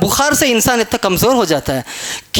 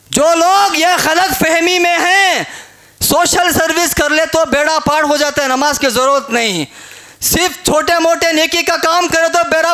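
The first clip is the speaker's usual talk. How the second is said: forceful preaching; 4 semitones higher than usual. Acted. Preacher attacks false beliefs.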